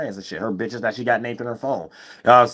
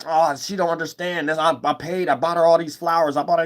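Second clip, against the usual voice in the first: mock complaint; 5 semitones higher than usual. Mimics men arguing with women.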